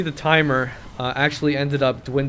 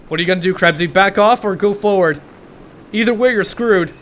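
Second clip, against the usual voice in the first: taunting; 5 semitones higher, 6 dB louder than usual. Real, not acted. Taunting enemy tank driver Krebsy.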